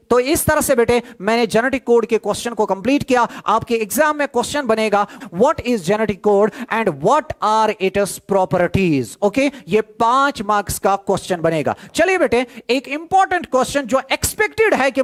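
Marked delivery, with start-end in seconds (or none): 5.3-9.0 slow, spelled-out dictation pace. Shown as a demonstration. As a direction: give the definition word by word for notes. Exam question dictated.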